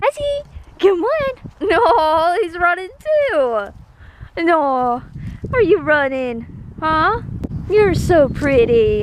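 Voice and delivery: high, slow cooing. Real, not acted. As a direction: coo at the kitties. Baby talk to cats.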